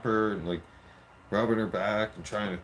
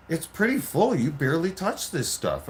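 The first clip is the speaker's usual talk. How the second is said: much higher, louder, teasing; higher wife voice; 7 semitones higher, 4 dB louder than usual. Retold or imitated. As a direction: play the wife poking fun. Wife teasing about the bottle.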